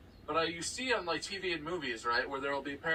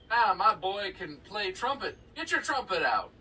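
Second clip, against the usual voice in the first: a hint of a bragging dad; boastful parent; 4 semitones higher, 5 dB louder than usual. Parent showing off trumpet-playing boy, mildly boastful.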